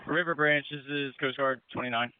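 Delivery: transmitted over a boat radio; radio handset sound, slightly muffled; marine radio. Real, not acted. Radio call during river rescue.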